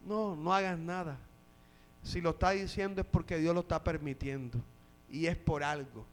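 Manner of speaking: low, soft, calming reply; calm restraint. Acted. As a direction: quietly hold back an eager follower. David restrains his angry men.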